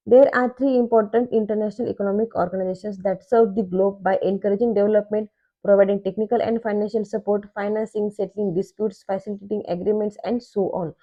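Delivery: reads the definition out very slowly, word by word; slow textbook reading. Shown as a demonstration. Teacher reading a textbook definition to students, slow dictation. Reads book passage aloud.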